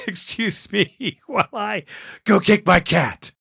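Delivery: a comic aside with a laugh; mock exit line.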